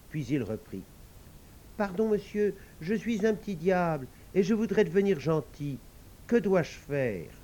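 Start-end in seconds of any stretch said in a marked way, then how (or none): 1.8-7.3 little devil. Acted.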